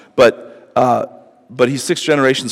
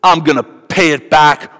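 a hint of a vengeful boaster, higher and slow; Lamech; 4 semitones higher, slower than usual. Preacher voicing Lamech's boast to his wives, mildly menacing. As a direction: threaten slowly, as a menacing braggart. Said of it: "he's like".

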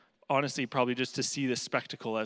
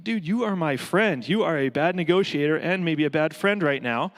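exasperated; 3 semitones higher, 6 dB louder than usual. Retold or imitated. Exasperated reply to friend.

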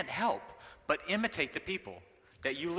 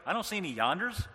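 put-on rising higher into a confused kid's whine; puzzled daughter; 4 semitones higher than usual. Daughter asking dad what a yonder is, puzzled and rising. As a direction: play the baffled little girl. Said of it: "my daughter's like".

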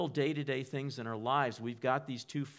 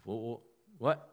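startled. Acted. Acts startled reaction to inner voice.

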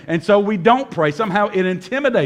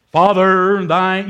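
a touch of solemn churchy prayer tone, a bit louder; mock prayer voice; 4 dB louder, much slower than usual. Pastor mimics Christians who pray in lofty tones, mild mock solemnity. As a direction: lightly imitate the formal prayer-meeting voice. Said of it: "their whole tone and tenor, everything changes".

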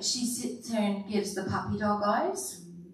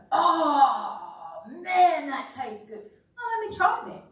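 eager foodie; 4 semitones higher than usual. Retold or imitated. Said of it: "they go".

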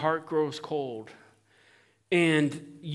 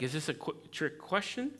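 wary question; 9 dB quieter than usual. Retold or imitated. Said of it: "almost like".

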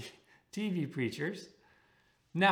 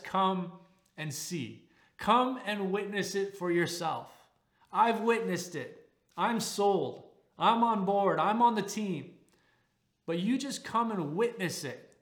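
higher, eager invitation, building louder; excited Philip; 3 semitones higher, 4 dB louder than usual. Retold or imitated. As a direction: sell it like a new believer who's on board. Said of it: "And he's all excited".

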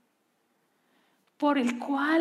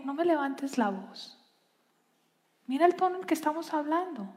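soft, calm, then quicker reasoning; quiet loving correction; gentle correction; 5 dB quieter than usual. Retold or imitated. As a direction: rebuke softly, in love. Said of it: "corrección en amor".

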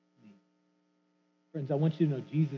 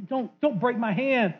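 pleading loser; 5 semitones higher, 3 dB louder than usual. Retold or imitated. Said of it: "They say".

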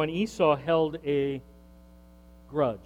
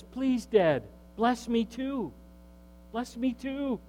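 weeping plea; 7 semitones higher, slower than usual. Acted. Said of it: "he's crying".

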